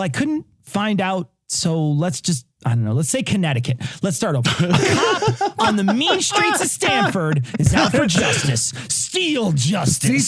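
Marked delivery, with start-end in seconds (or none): 4.5-10.3 movie trailer voice. Pretend. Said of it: "mock trailer narration".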